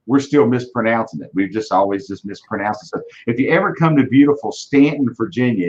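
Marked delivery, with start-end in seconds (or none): 4.5-5.1 Stanton with a flat "a"; local pronunciation Stanton. Shown as a demonstration. Inviting visitors to town, Stanton with flat "a". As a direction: say Stanton as locals do, vowel like "stand". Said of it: "it's Stanton, not Staunton".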